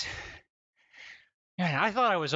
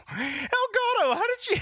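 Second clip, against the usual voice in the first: incredulous; 4 dB louder than usual. Real, not acted. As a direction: drag out the name in disbelief. Dice trick, incredulous outcry.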